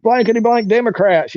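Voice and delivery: a sneering heckler; mock the stranger's contempt for Democrats; imitating a hostile guy. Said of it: "he was like".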